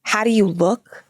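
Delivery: slow, incredulous Brooklyn mom imitation; Fran Drescher. Mom answering stepdad in hunting gear, incredulous Brooklyn accent. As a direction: echo the question in disbelieving Brooklynese. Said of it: "talks like Fran Dresser".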